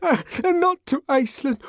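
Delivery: high, loud, grovelling plea; abject begging. A narrator's reading. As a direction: throw himself on the master's mercy. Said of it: "in a paroxysm of abjection".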